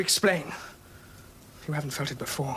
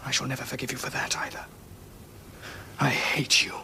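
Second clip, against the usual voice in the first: hateful whisper; 4 semitones lower, 5 dB quieter than usual. Acted. Son accusing father over mother.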